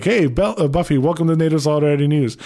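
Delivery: retelling his own overeager on-air hello; enthusiastic greeting. Retold or imitated. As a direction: greet her like everything's going great. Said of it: "the enthusiasm in my voice going".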